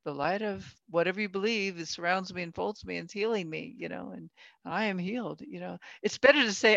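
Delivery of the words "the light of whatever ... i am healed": softly recited healing affirmation; quiet affirmation. Acted. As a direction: say it softly to yourself, as self-healing. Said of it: "soon after to go".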